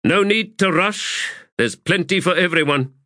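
high, projected call to the troops. A narrator's reading. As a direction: raise your voice over a crowd, composed. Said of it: "and then raised his voice".

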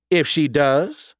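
stern mother's pointed query; challenging mother. A narrator's reading. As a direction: press the question, drawing it out. Glaring mother challenges the narrator.

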